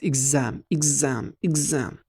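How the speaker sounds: إكزام with voiced gz. Shown as a demonstration. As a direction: buzz the x of إكزام as g plus z. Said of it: "إنما هنا جز". (انطق «إكزام» بصوت جز)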